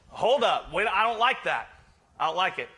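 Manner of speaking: a hammed-up complaint about the idea; mock objection. Imitating objecting churchgoers.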